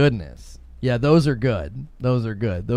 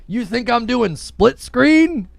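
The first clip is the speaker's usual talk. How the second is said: higher-pitched playful outrage; mock indignant; 6 semitones higher than usual. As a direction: give the viewer a hard time in jest. Mock tirade at Big Fry.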